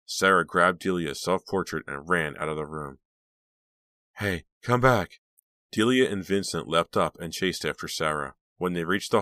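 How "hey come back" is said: raised, slow call. A narrator's reading. Delia to Sarah running away, calling out. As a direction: call after someone running off. Calling after fleeing sister.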